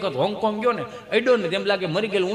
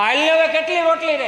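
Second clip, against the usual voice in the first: higher wife's reply; a hint of a wife's voice; 8 semitones higher, 4 dB louder than usual. Wife telling husband how many rotis remain. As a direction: answer like the wife at the stove.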